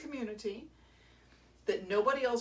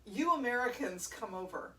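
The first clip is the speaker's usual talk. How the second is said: higher, louder, gushing American tourist voice; mock gushing American tourist; 6 semitones higher, 5 dB louder than usual. Scottish kilt seller mocking gushing American tourists. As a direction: ham up the eager tourist. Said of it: "And he says".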